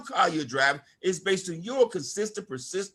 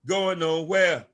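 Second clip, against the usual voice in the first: slow quoted lyric line; 5 semitones lower, slower than usual. Retold or imitated. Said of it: "As a rapper said".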